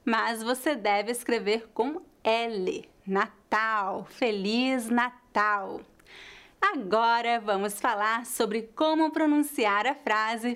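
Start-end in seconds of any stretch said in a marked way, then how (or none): 3.1-5.8 slow "Natal" closing on a U, "na-TAU"; final L as U. Shown as a demonstration. Teacher repeating the correct sound, "Natal" said as "na-TAU". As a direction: draw out "Feliz Natal", the L gliding to U. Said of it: "a pronúncia correta".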